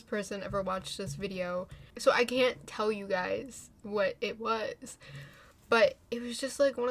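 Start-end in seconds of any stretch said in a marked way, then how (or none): 2.0-5.0 hushed, secretive whisper. Real, not acted. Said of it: "I would sound so insane".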